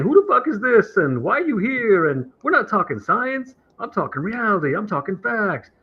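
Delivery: hammed-up angry guy mocking his rival; mock angry rant. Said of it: "He starts saying".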